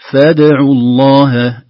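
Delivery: "فادعوا" with a bounced dal and neutral lips, slow and loud; qalqala demo. Shown as a demonstration. Teacher showing the echoing dal, slow. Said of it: "الفم يكون في".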